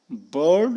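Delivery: बर्ड with no R before the d; British, no R. Shown as a demonstration. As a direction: drop the R in बर्ड. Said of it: "British वाले आर का pronunciation नहीं करते".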